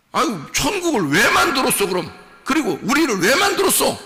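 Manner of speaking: hammed-up sulky complaint; mock complaint. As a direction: grumble like an aggrieved child. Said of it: "이렇게 하면은".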